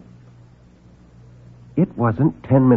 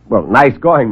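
mocking praise, louder; sarcastic; 3 semitones higher, 5 dB louder, slower than usual. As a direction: sneer the compliment. Reporter mocks visitor.

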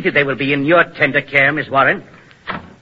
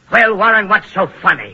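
loud, high, irritated challenge; indignant demand; sharp rebuke; 6 semitones higher, 6 dB louder than usual. Acted. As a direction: round on an assistant. Captor rebukes assistant.

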